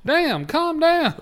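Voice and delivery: high, drawn-out plea; exaggerated, slow telling-off; mock startled protest. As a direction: loudly drag it out, as if recoiling from angry shouting. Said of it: "they just sound angry".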